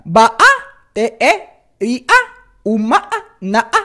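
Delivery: each syllable echoed by a cracked vowel; syllable-by-syllable voice breaks; scratch break. Shown as a demonstration. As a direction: split every syllable with a little squawk. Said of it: "hacer esas partes del scratch".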